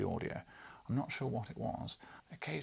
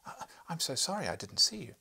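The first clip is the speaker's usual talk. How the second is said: higher, louder confused wife; flustered apology; 7 semitones higher, 8 dB louder than usual. Acted. Wife apologising to the young man, high flustered voice.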